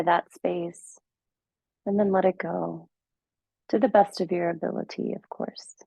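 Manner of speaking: measured meditation guide with long pauses; guided meditation. Acted. Teacher guiding listeners into their practice, calm guided meditation. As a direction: ease them gently into stillness, leaving space between phrases.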